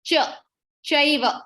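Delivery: "cha", then "Chaiva" with the same CH. Shown as a demonstration. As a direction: teach "Chaiva" with ch as in church. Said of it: "you will pronounce it as".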